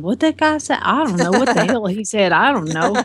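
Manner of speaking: lightly imitated baffled Southern dad; Southern dad impression. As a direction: mimic your Southern dad not understanding. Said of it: "that's how my dad is".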